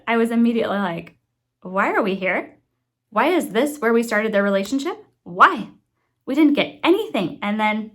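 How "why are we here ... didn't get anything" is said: retold exasperation with punched question words; annoyed. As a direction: imitate your own annoyed, baffled reaction. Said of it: "I was so annoyed".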